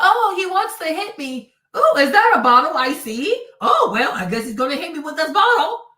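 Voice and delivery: loud, lilting, naive mock victim; mock oblivious victim. Mocking the victim who just watches the bottle, loud and naive. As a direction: play a clueless man calmly waiting to be hit. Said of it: "You're gonna be like".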